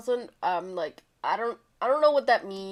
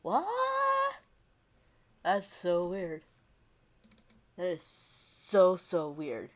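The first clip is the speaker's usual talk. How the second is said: incredulous; 4 dB quieter, slower than usual. Retold or imitated. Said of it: "and I'm like".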